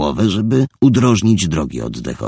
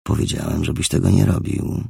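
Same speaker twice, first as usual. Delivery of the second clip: seething anger. Acted. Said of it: "wycedził przez zaciśnięte zęby".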